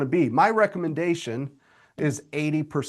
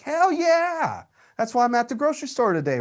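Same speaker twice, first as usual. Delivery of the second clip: much higher, fast, whooping triumph; hyped cheer; 8 semitones higher than usual. Pretend. Coach acting out his thrilled reply to the teacher, high and fast. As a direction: cheer like you just landed the deal. Imagined reply landing a listing.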